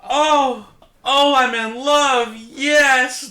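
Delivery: high, breathless mock ecstasy, slowed on the love; excited date. Host imitating Frankenhooker's date swooning, high hammed-up ecstasy. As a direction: gush like a smitten sleazy client.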